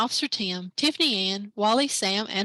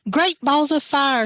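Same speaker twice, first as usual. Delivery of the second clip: loud, slow exclamation of a startled father; shouted; 4 semitones higher, 7 dB louder than usual. Acted. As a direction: boom it out in surprise. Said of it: "shouted Stella's father".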